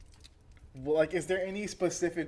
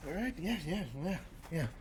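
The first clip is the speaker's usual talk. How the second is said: sarcastic grumble; 12 dB quieter, faster than usual. Acted. Driver grumbles quietly.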